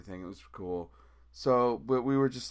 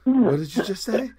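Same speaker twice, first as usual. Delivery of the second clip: high and much louder, yelling "what"; outraged shout; 11 semitones higher, 9 dB louder than usual. Retold or imitated. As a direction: blow up at the announcer, hitting "What" hard. Disbelief at the announcement.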